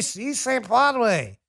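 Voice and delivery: "puede" mangled as "pwahd-way", very slow; mock it with a drawn-out "pwahd-way" for "puede"; botched Spanish. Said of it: "what's puede?".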